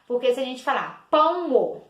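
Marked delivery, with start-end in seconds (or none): 1.1-1.8 "pão" stretched into two syllables, PÃ-O; "pão" with an extra beat on the final o; wrongly split syllables. Shown as a demonstration. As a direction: mispronounce "pão" as two beats, pã-o. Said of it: "olha que errado".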